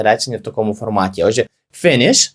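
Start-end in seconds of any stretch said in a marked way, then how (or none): 1.8-2.3 teacher stressing finish; emphasized finish. Shown as a demonstration. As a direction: finish said clearly with a rising tune. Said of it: "ще наголошу".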